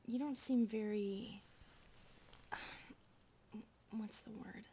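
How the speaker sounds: hushed, careful whisper. Acted. Maid in bed asking the master about the estate, whispered.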